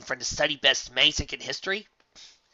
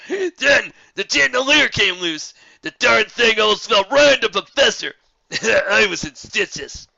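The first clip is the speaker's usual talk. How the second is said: loud, high, slow cackling boast; roaring with laughter; rowdy laughing; 9 semitones higher, 10 dB louder, slower than usual. Acted.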